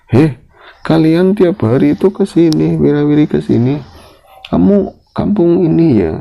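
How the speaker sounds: put-on high, loud challenge to the boys; stern father's call. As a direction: call them out like a wary warung owner. Bapak menegur anak-anak di warung. (teguran keras bapak dengan suara tinggi)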